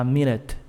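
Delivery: "minute" as MIN-it, ending cut short; "minute" with no vowel after the T; swallowed final sound. Shown as a demonstration. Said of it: "Bem comido o som também".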